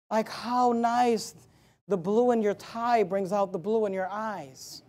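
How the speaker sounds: slow, softened imitation of sweet talk; mock lovey-dovey. Preacher imitating dating couples' compliments, mock lovey-dovey. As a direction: imitate a smitten dater, soft and drawn out. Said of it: "all this lovey, lovey, lovey stuff".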